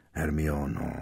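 softly, just his friend's name; tiše. Acted. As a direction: say her name quietly to stop her. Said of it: "řekl tiše Harry". (tiše, jen její jméno)

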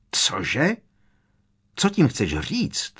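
shrieked, hint of fear. A narrator's reading. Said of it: "vřískla Bellatrix".

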